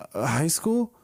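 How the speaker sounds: puzzled "high school?" rising like a strange term; confused friend caught off guard; baffled by a new word. Retold or imitated. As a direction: say it as if you've never heard the word. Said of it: "he said it like it was a new word".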